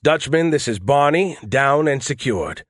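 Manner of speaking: pilot radio call. Acted. Pilot reporting landing to the Dutchman, mild radio call. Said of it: "I announced".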